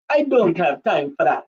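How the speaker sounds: put-on Nigerian accent that drifts Jamaican; attempted Nigerian accent. Shown as a demonstration. Performing on a viewer's request, shaky-aim Nigerian accent. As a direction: try a Nigerian voice, landing near Jamaican. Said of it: "That's not Nigerian ... That was Jamaican".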